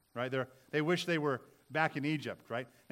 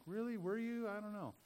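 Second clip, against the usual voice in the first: sarcastic doubt; 6 semitones higher, 8 dB quieter than usual. Retold or imitated. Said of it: "And like".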